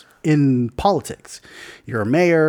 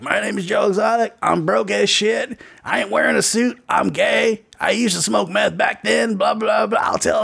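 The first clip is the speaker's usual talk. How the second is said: higher, hammed-up campaign ad with a shouted blah blah; Joe Exotic; 7 semitones higher than usual. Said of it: "his campaign ad is like".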